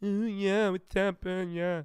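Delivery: high-pitched, teasing, mocking voice poking fun. Making fun of their girlfriend's voice, mocking imitation of girlfriend. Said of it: "I do a voice for my girlfriend when I make fun of her".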